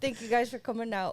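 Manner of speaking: host voice, a little shy; announcer voice. Acted. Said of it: "That's her announcer voice".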